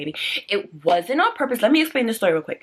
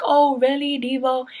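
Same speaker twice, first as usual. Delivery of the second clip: mock doubting viewer; 6 semitones higher, 4 dB louder than usual. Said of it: "none of y'all gonna say".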